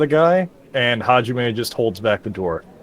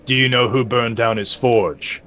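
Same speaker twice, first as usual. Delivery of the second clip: serious voice; slower than usual. Acted. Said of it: "In a serious voice".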